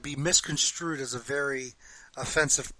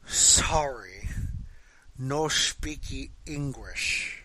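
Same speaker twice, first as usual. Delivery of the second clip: put-on slow broken English in a Japanese accent; a light Japanese accent, dismissive and slow; mock Japanese accent; 3 dB quieter, much slower than usual. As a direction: imitate a Japanese accent saying sorry, slowly. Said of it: "He did it with the R's and everything".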